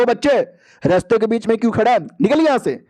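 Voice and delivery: acted annoyed challenge; gruff scolding. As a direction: shoo a kid out of your way. Bear-like beast orders boy away.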